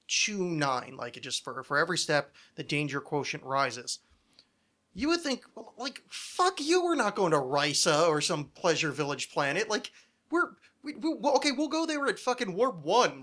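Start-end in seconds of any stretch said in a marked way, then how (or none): 4.9-13.2 high, exasperated sarcastic retort; sarcastic captain's rant, high and scornful; mock indignant captain. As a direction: throw it back with scorn, pitched way up.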